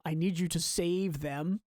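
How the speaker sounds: slow read, weight on save; stress on save. Shown as a demonstration. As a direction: save drawn out and leaned on. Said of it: "Emphasis on save".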